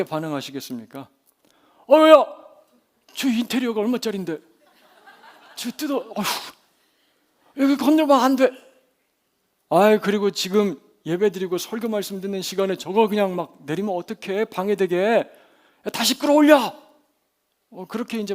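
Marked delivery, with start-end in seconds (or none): 1.9-8.5 high, loud cry of dismay; acted flustered outburst; alarmed protest. Acted alarm as roof opens. 9.7-16.7 acted exasperated scolding, rising to a shout; indignant at the interruption; annoyed protest.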